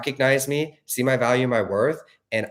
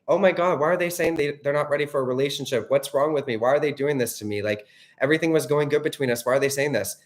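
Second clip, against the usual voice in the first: mock panic; 3 semitones higher than usual. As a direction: play the anxious overthinker, pitched up. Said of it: "I wouldn't be like".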